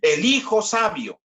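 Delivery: slow preacher's verse reading; solemn scripture reading. Acted. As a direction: read it out like holy writ.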